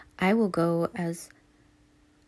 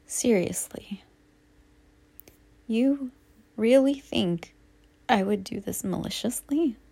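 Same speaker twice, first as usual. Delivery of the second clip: indignant disbelief; 3 semitones higher than usual. Acted. Accused of doing it on purpose.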